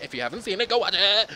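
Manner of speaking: loud, high demand; shouting. Real, not acted. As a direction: yell it at the audience. Commands the viewers.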